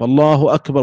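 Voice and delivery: الله أكبر as a separate phrase ending on a still r; stop after phrase. Shown as a demonstration. Teacher showing the second opinion, stopping after the takbir. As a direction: halt cleanly after أكبر. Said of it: "ويقف".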